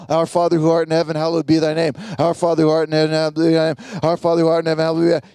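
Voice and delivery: fast, mechanical recital of the same lines; rote rattled-off prayer. Shown as a demonstration. Mindless rote repetition. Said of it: "He didn't repeat this over and over".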